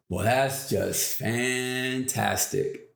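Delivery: slow, unbothered cheerfulness; cheery calm. Retold or imitated. Zig to the delayed-flight attendant, slow and cheerily unbothered. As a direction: shrug it off with a slow cheerful reply. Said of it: "Why are you so cheery and happy about it?".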